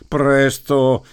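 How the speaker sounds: pleading shout. A narrator's reading. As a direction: beg urgently with "Presto!". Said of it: "implorò Dunn".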